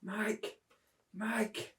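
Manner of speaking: small, high cry for help; mock plea. Climber to Mike while slipping, mock plea. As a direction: softly mimic calling out while slipping. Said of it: "and I was like".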